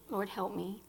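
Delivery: soft repeated Lord, help me with Lord leaned on; a weary hushed echo of the plea; quiet retold prayer. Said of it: "all I could do was lay in the bed and say".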